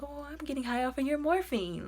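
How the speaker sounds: high-pitched put-on character voice; mock druggie. Guy caught using another's morphine, mock-high voice.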